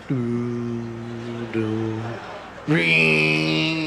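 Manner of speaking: organ imitation. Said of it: "where the guy played the organ".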